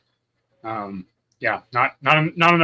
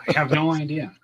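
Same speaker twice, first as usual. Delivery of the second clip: laughing; 4 semitones higher than usual. Real, not acted. Laughing at empty schedule.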